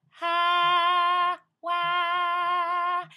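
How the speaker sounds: high, loud "ha, wah"; bright, young, wide "ha, wah". Shown as a demonstration. Coach shows the wide bright young tone. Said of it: "That wideness gives you access".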